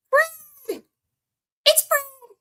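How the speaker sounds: high, loud delighted call; excited greeting. Real, not acted. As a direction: greet a favourite chatter with a happy shout. Greeting a chat regular.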